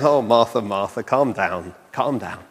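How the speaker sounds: patronizing, with a smile. Retold or imitated. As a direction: soothe her like a fussy child, mildly patronizing. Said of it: "Speaking with a smile".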